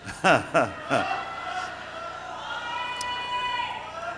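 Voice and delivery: short falling chuckles breaking out; acted suppressed laugh. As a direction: let a few helpless ha-ha-ha bursts escape. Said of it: "I want to laugh badly".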